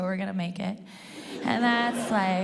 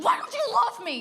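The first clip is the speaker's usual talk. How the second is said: high, pleading little plea, sweet as pie; sugary plea to the boyfriend who won't say I love you; super lovable tone; 13 semitones higher, 3 dB louder than usual. Retold or imitated. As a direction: ask it like a needy puppy begging for love. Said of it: "in a super lovable tone".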